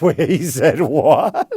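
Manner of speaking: high, slow, loud laughing disbelief. Pretend. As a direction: laugh through the question. HR caller laughing.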